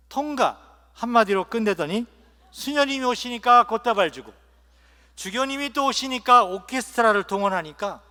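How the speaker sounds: indignant protest. Acted. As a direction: protest loudly at the unfairness as a slighted newcomer. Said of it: "베드로 성인에게 따졌습니다".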